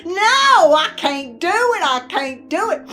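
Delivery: loud high "no", then easing; mock panicked refusal. Wife refusing husband over baiting the hook, mock panic. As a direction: protest in comic panic, settling as it goes.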